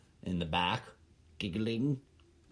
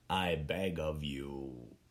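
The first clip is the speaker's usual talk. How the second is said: lower, softer and slow, a hushed closing beg; soft final plea; 9 semitones lower, 7 dB quieter, slower than usual. Pretend. Ending the letter to HBO with a quiet humble beg. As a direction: let the plea sink into a humble murmur. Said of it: "I was writing a letter".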